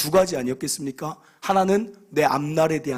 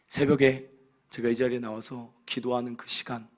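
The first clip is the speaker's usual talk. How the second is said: ordinary talk, nothing marked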